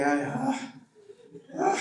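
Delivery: acted effortful sighs; mock groaning sighs. Pastor imitating how laborious family devotions felt, mock groaning. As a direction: let out exaggerated, breath-heavy sighs.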